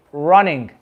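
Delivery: "running" with the lips curled in; English R. Shown as a demonstration. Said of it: "they curl in".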